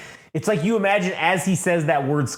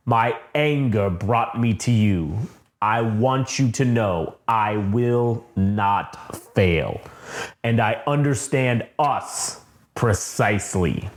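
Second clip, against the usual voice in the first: slow, low, lightly voiced Vader; a hint of cold Vader, slowly; Vader vow; 4 semitones lower, slower than usual. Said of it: "he bows and he says".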